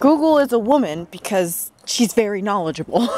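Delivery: laughing. Real, not acted. Laughing at own joke.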